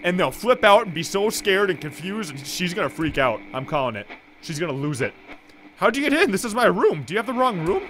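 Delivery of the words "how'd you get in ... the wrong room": high, loud indignant mother asking how he got in; mother scolding a stranger in her room; indignant old mother. Acted. Mother voiced, indignant at intruder.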